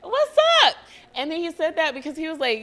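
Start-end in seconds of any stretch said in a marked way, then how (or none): 0.0-0.8 high, loud, slow greeting shout; imitating a friend's loud greeting; Eric calling out. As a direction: hype friend calling her name. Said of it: "he'd be like".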